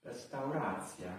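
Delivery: "Restauracja" said slowly, "cja" as /tsja/; slow careful repeat. Shown as a demonstration. Learner sounds out the Polish word for restaurant. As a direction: draw out "Restauracja" syllable by syllable.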